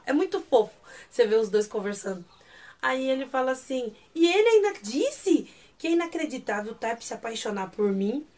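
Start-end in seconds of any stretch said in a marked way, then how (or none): 4.1-8.2 aggrieved complaint. Retold or imitated. Pogum tells Psyr about the insult, playfully aggrieved. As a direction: complain like someone wanting to be comforted.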